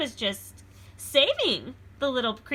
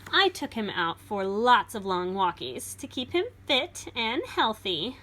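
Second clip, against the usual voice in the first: put-on lively read-aloud for children; storybook reading; 4 dB louder than usual. A narrator's reading. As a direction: read it like a picture book to a class. Reads picture book aloud.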